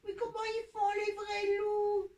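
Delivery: put-on small hesitant baby wolf voice; tiny timid little cub. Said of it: "t'as retrouvé ta voix de bébé".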